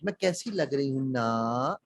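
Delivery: ना stretched out with a rise at the end; slow down and lift ना into a question; questioning intonation. Shown as a demonstration. Trainer imitating women asking about looks, rising ना. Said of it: "सवाल पूछ रही होती हैं".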